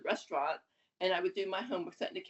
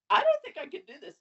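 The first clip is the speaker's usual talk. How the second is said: out of breath; 13 semitones higher, 7 dB louder than usual. Retold or imitated. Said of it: "out of breath".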